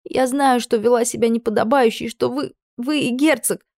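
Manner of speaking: high, rushed, breathless confession; blurted out. A narrator's reading. Kneeling maid blurts out her guess to her lady, high and rushed. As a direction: spill it before courage fails, voice pitched high. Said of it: "подняла голову и выпалила".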